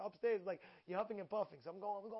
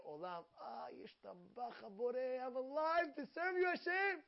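excited morning prayer; 3 semitones higher than usual. Retold or imitated. A sage praying to God for morning excitement, rising joy. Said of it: "one of the Amoraim prayed".

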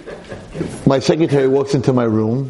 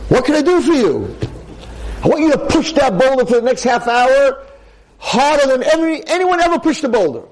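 voice of God; 13 semitones higher than usual. Acted. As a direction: command him like God from above. God gives the command.

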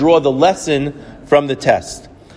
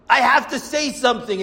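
booming voice; 8 semitones higher than usual. Retold or imitated. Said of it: "She has a booming voice".

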